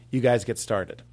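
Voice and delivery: Wahlberg Boston drawl, relaxed jaw; loose-jawed Boston line; Boston accent. Shown as a demonstration. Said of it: "our touchstone for Wahlberg".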